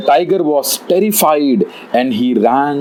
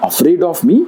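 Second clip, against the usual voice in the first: higher-pitched rhetorical questions; affronted tiger; 7 semitones higher than usual. A narrator's reading. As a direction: wonder aloud as a slighted king, pitch lifted. Tiger questions its royal standing.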